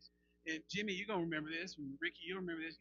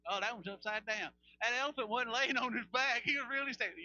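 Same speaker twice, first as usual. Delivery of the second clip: mock missionary excitement; 4 semitones higher, 5 dB louder than usual. Mocking missionary slideshow.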